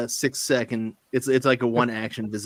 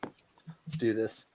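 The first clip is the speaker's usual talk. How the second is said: slow, breathy whispered resolve; 2 semitones lower, 10 dB quieter, much slower than usual. Real, not acted. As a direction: whisper it like sneaking. Player whispers his stealth roll.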